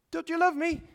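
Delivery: pleading quote. Retold or imitated. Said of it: "And they go".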